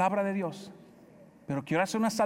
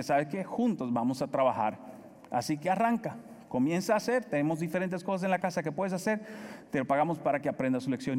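calm teaching; 3 semitones lower than usual. Retold or imitated. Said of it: "sin gritarle".

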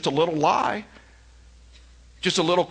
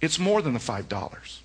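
much softer and lower, steady and earnest; quietly firm; 4 semitones lower, 6 dB quieter than usual. Retold or imitated. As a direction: calmly correct the manager without raising your voice. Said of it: "I just told him kinda quietly".

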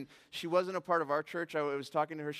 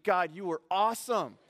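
excited thought; 4 semitones higher, 8 dB louder than usual. Retold or imitated. Inner thought, excited, laughing.

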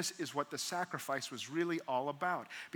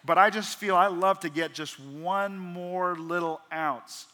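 laughing confession; 3 semitones higher, 7 dB louder, slower than usual. Real, not acted. Laughing at own toothpaste habit.

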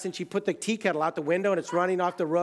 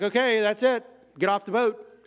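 boat captain ordering; 5 semitones higher, 4 dB louder than usual. Retold or imitated. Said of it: "And he's like".

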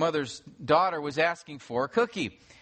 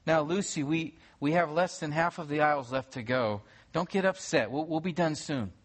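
gentle. Retold or imitated. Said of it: "her mother said gently to her".

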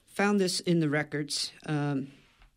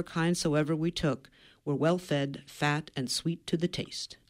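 measured book-reading delivery, lightly lifted; reading aloud. Real, not acted. Author reads an old explorer's account to the host, reading aloud.

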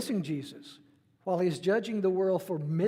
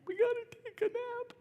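much higher, mock-whiny kid voice; imitating little kids. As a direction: play a grumbling little child. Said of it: "they didn't even like to take a nap".

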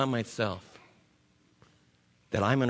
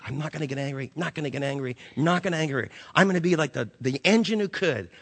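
determined self-pep talk; 4 dB louder, faster than usual. Retold or imitated. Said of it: "I've tried to say from my time as a little kid".

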